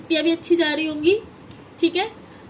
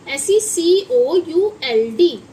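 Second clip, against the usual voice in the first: each letter spelled out slowly and louder; slow loud spelling; 2 semitones higher, 6 dB louder, much slower than usual. Shown as a demonstration. Teacher spelling COULD out loud for pupils. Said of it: "इसे हम बोलेंगे कुड".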